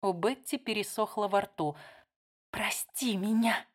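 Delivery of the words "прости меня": slow, breathless whisper; whispered, slow and hushed. Acted. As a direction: barely breathe the apology. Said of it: "прошептала она".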